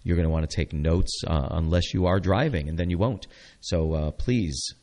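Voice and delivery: bright, upbeat radio host pitch; radio announcer read. Acted. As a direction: sell it like a local station promo.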